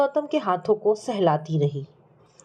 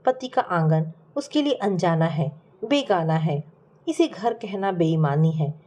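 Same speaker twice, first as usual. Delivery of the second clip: measured, dramatic storytelling with falling phrase ends; story narration. A narrator's reading. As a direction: narrate a tragic family tale. Narrates a sad family story.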